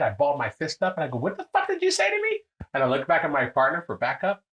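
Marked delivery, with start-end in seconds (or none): 1.2-2.4 high-pitched indignant demand; retold angry challenge. Balled fist at the doorman, high retold angry challenge. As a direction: shoot up in pitch, acting out outrage. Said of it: "and I got mad".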